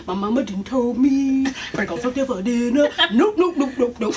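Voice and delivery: lightly voiced comic bird; little bird impression. Likening him to that little bird, playful bird impression. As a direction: imitate a sassy little bird, half laughing. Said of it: "He just like that little bird".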